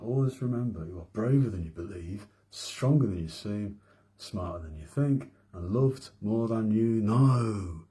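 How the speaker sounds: slow, deliberate recital of a motto; reciting a mantra. Shown as a demonstration. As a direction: say it like a mantra, drawn out at the end. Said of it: "I'm gonna say the mantra".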